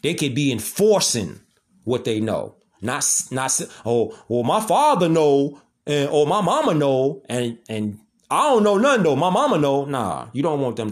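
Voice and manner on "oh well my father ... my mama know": a hint of a clueless child passing the buck; unprepared child. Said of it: "children could be talking like that".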